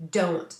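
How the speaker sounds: Don't said as one firm, stressed word; emphatic DON'T. Retold or imitated. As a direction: imitate an all-capitals Don't, firmly punched. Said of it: "that was in capitals".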